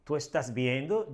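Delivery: "¿Tú estás viendo?" said as a question, lifting on "viendo"; question intonation. Shown as a demonstration. Teacher showing students how to turn a statement into a question, "¿Tú estás viendo?" in interrogative intonation. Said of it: "the interrogative intonation".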